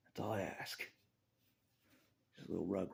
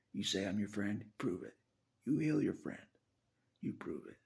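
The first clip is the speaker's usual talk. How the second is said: louder, higher, pressing demand; angry challenge; 3 semitones higher, 6 dB louder than usual. Real, not acted. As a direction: push him to prove it. Challenging Jesus to prove friendship.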